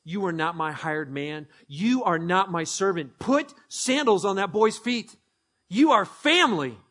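a father claiming his son, rising; the father speaking. Acted. Father welcoming the son home, building to a proclamation. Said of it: "And the Father is saying".

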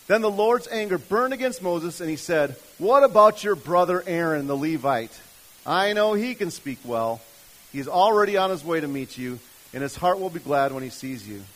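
loud, emphatic Bible reading; projected pulpit reading; scripture reading. Acted. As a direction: read God's angry answer out with force. Reads scripture aloud.

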